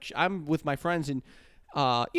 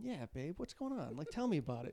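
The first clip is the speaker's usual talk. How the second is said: flirty impression; 13 dB quieter than usual. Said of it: "I'm going".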